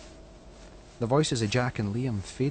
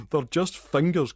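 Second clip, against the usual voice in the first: condescending; 4 semitones higher, 4 dB louder, slower than usual. Acted. Jack laughing at Callum.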